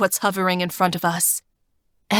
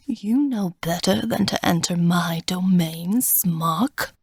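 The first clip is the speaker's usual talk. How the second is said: put-on cold, raspy, whispery old god; raspy old man. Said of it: "he sounds like an old man, raspy and cold".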